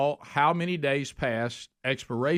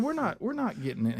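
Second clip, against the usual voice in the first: retold refusal; 8 semitones higher, 4 dB quieter than usual.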